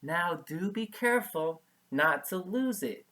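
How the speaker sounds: light playful teasing warning. Acted. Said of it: "she teased him".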